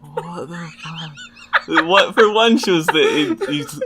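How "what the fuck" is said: incredulous. Real, not acted. Slow incredulous laugh.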